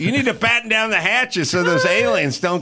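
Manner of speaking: pirate voice. Pretend. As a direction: give pirate orders with relish. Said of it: "I read it like a pirate".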